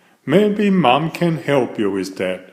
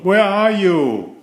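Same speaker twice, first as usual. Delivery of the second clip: worried father calling; 7 semitones higher than usual. A narrator's reading. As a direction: call into the dark woods. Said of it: "he called".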